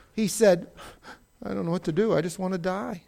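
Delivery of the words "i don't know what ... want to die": understated despair in a retelling; softly voiced dejected prophet; so sad. Prophet the day after the miracle, so sad. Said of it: "He got so sad".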